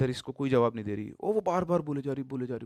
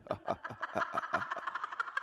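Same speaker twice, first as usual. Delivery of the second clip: soft, breathy eerie cackle; an unsettling ghostly chuckle; hushed sinister giggle in the lift; creepy laugh; 4 semitones lower, 8 dB quieter than usual. Retold or imitated. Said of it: "उसने हंसना शुरू कर दिया".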